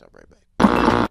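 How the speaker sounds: slow, low "I'll be right back"; slow deep sign-off. Acted. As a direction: drop the voice low and drag it out. Signing off before break, slow low.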